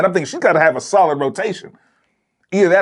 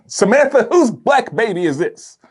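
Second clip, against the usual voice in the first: accusing call; 5 semitones higher than usual. Pretend. Calling out accusingly.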